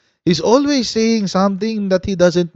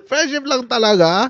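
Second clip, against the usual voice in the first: teasing; 6 semitones higher than usual. Real, not acted. Teasing question repeated higher.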